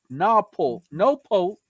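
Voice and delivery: NEWPORT with no R sound, vowel held open; dropped R's. Real, not acted. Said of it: "You, you don't use your R's".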